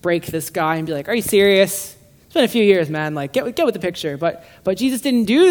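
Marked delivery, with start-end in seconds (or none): 1.1-4.2 a touch of mock exasperation, louder; lightly voiced sarcastic rebuke. Jesus imagined scolding Philip, mild mock sarcasm. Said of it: "sarcastic beat down".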